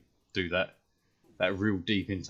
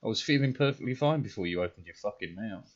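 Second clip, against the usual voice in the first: irritated retort; 4 semitones higher, 4 dB louder than usual. Retold or imitated. Angry retort to imagined people.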